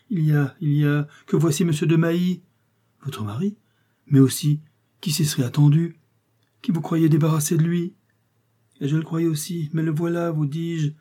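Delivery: acted rising panic; alarmed. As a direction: break bad news in a fluster. Countess sees husband arriving.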